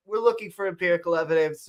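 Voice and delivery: quick run through the line; sped-up readout. Real, not acted. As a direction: rattle it off to get moving. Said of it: "I say I go fast".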